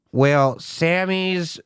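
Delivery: store PA announcement. Retold or imitated. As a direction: stretch it out like a store intercom page. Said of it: "And they go".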